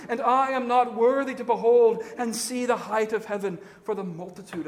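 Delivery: put-on slow, earnest reading of an old prayer; solemn prayer read. Preacher reading Manasseh's prayer to the congregation, solemn and slow. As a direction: pray it slowly, as your own penitent words. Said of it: "I will read it slowly".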